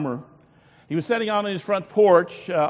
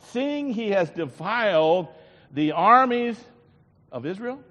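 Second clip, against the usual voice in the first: preaching scripture; slower than usual. Acted. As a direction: proclaim it from the pulpit with force. Reading scripture at preaching force.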